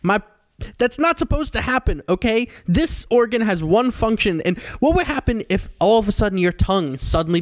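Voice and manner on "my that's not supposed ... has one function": put-on higher, lecturing as if explaining to a child; stern explainer, played for laughs; mock scolding voice. Podcast host mocking a creator, mock lecture.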